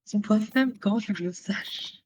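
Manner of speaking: dismissive fairy in French; a hint of a rude fairy. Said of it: "she says".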